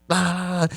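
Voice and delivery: high, soft "ah" noise; high-pitched mocking "ah"; imitated drunken yapping. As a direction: mimic her noise in a high voice. Imitating drunk woman in his face.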